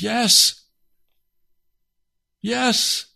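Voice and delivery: high, urgent assent; instant fervent yes. Retold or imitated. Man accepting God's offer at once, fervent. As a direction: blurt it out high, without thinking. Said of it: "without even thinking, I just said".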